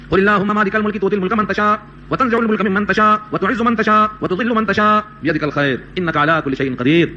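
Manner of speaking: slow, measured chanting of the Arabic verse; slow Quranic chant; Quranic recitation. Acted. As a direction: intone the verse slowly and reverently.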